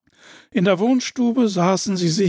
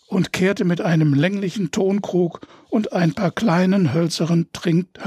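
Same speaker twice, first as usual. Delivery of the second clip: usual speaking voice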